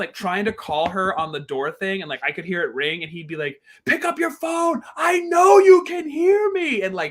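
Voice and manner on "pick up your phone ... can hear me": very high, drawn-out shout. Retelling a man calling a woman through the door phone, retelling his shouting. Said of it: "he was shouting".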